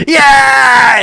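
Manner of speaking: high, loud, drawn-out cartoon scream; comic waking shriek; startled spider yell. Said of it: "the spider wakes up and goes".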